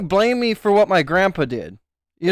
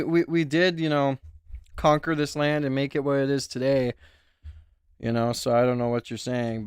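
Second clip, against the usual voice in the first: lower, softer, deadpan mock opinion voice; ironic bigot persona; 7 semitones lower, 4 dB quieter than usual. Playing a smug persona for chat, lower and deadpan. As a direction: play a smug know-it-all straight.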